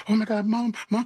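high-pitched mock kid's gasping excitement; imitated overjoyed kids. Kids arriving at the house call to mom, imitated excitement. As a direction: mimic awestruck kids calling for mom. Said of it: "the joy I see".

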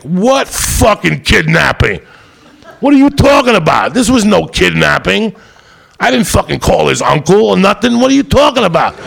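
high, loud incredulous protest; outraged protest. Retold or imitated. Arrested comic yelling at cops over kidnapping charges, high loud outrage. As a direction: shout your disbelief at the charges.

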